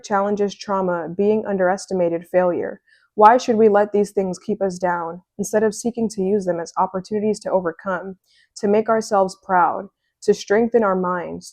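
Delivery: lightly dramatic oracle-card read. Acted. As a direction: read it like an affirmation. Reads the oracle card text aloud.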